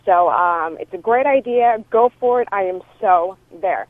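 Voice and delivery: voicemail over a phone line; phone recording; answering machine message. Real, not acted. This is from a friend.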